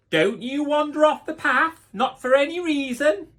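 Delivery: high, loud mother's warning; loud anxious mother; stern warning. Acted. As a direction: call it out firmly like a worried mum. Mother warns Little Red.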